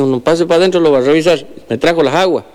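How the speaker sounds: high-pitched rural healer greeting a neighbour; old healer voice. Acted. Healer invites him in.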